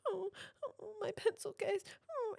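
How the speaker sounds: high, soft whimpering sob; teary little whimper. Retold or imitated. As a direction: imitate a child whimpering over a loss. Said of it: "but more like whimpering".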